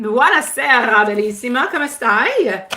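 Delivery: purring Italian charmer greeting; talking Italian. Pretend. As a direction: croon it like a Latin lover. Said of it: "talking Italian".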